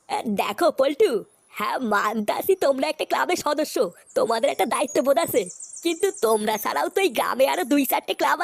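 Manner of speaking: low, unhurried village elder; lightly voiced old headman. Headman lazily refuses to help the club members. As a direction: brush them off like a tired old headman.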